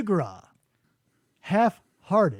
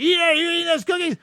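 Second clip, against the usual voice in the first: high whiny denial; mock caught kid; 8 semitones higher, slower than usual. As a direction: squeak out a childish no. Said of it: "a child getting caught with cookies".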